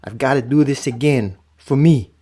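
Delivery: slow, solemn poem reading. Shown as a demonstration. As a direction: read it slow and heartfelt, like a poem. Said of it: "I'm gonna read it just like my grandfather would probably wanna read it".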